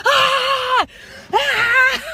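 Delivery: high loud raging screams; screaming out the window. Retold or imitated. Driving off in rage, loud screams out the window. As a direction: scream out the car window in fury. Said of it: "I'm screaming out the windows".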